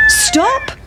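very high crowing stop; cockerel. Acted. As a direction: crow it like a rooster. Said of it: "said the cock".

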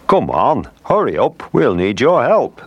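high-pitched storybook call to hurry; urgent call. A narrator's reading. Swordfish rally two whales to join the rescue, calling urgently. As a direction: call out urgently, pitch leaping up without a full shout. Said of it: "they shouted".

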